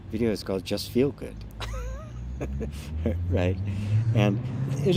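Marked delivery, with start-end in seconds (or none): 1.4-3.2 high, airy burst of laughter; laughing. Real, not acted. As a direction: break into a long, high-pitched laugh. Laughs at own video title.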